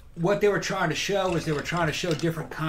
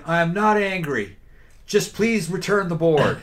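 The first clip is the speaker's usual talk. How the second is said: hint of a wounded colonel pleading; slow, mock-calm officer's plea; pompous sputtering colonel; 2 semitones higher, 4 dB louder, slower than usual. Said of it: "voice going".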